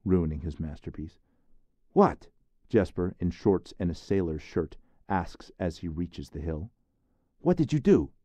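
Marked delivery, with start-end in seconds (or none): 1.9-2.3 put-on boyish call. Boy calls from the hill. 7.4-8.1 put-on high, louder boyish question; a kid demanding to know; curious boy. Jesper asks Therese about the smoke, high boyish voice.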